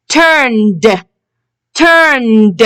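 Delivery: "turned" ending in a released d; teacher's model "turned", final d made audible; final d sound. Shown as a demonstration. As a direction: say "turned" carefully with ed as a voiced d. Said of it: "The d sound".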